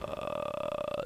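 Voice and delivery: long low creaky "uhhh"; frozen, drawn-out croak of someone caught out; stunned "uh". Acted. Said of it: "it's just deer in the headlights".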